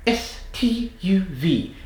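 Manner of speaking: high, cliché British letters; stereotypical British accent. Shown as a demonstration. Accent coach demonstrates letters forward in the mouth, stereotypical British accent. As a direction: spit each letter out in exaggerated British. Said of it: "do these letters in a British accent".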